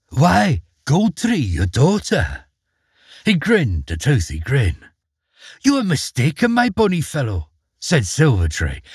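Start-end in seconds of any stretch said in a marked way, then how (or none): 0.1-2.4 high, then slowing on your daughter; reluctant fish telling truth; trout. Acted. 5.6-7.5 higher, sweetly condescending queen; a hint of a polite cruel queen; polite smiling queen. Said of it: "smiling politely".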